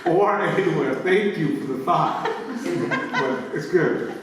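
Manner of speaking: giggling, playful no; laughing refusal. Retold or imitated. Declining a student's gift on campus, laughing. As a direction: turn them down kindly while laughing.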